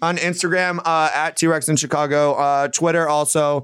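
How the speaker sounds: talking while eating a strawberry; chewing between words; mouth full. Real, not acted. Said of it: "I'm eating this strawberry loudly".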